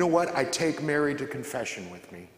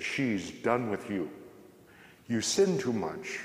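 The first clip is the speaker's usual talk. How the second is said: evil voice; 3 semitones lower, 3 dB quieter than usual. Retold or imitated. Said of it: "I heard this voice that said".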